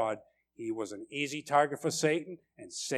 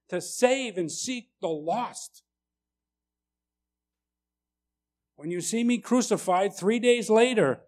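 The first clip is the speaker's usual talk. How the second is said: comforting Jesus; 5 semitones higher, 4 dB louder than usual. Retold or imitated. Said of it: "He's like".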